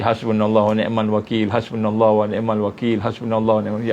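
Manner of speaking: gentle devotional recitation; recited dhikr. Shown as a demonstration. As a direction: recite it calmly as a model.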